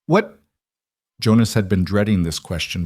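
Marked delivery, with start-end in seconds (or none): 0.1-0.4 sharp, much higher startled "What?". Acted. Jonas startled by Mabel's question, high surprised yelp. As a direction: caught off guard, jump up in pitch.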